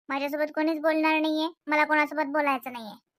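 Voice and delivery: sulky complaint. Acted. Sulking daughter complains to dad.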